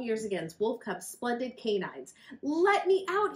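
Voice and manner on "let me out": high, loud shout from the jaws. Acted. The trapped rabbit shouting at Wolf Cub, high and loud. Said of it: "he shouted".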